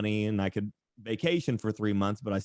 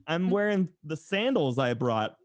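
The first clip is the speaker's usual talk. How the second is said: incredulous disbelief; 8 semitones higher than usual. Retold or imitated. Teen defending his sandals to a stranger, high and incredulous. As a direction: squeak out the outrage in disbelief. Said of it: "And I'm like".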